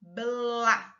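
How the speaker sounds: "Blá" with the b and l drawn into one sound; teacher's careful, stretched "Blá"; blending the letters. Shown as a demonstration. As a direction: join b, l and a slowly into "Blá". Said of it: "Nós vamos falar as, as letras".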